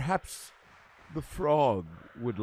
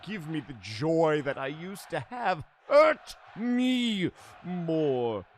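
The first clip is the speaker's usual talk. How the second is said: shouted plea; 3 semitones higher, 5 dB quieter, slower than usual. Acted. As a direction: bellow it with anguish. Villain promo, shouted plea.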